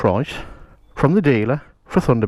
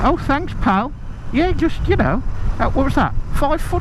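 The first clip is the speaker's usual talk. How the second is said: sarcastic; 11 semitones higher than usual. Real, not acted. Rider reacts to a road user.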